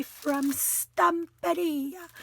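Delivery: Stamperia drawn out slowly; showy brand-name flourish. Shown as a demonstration. Crafter showing off the kit's maker, showy flourish. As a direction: stretch out Stamperia with playful relish. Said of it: "I have to say it like that".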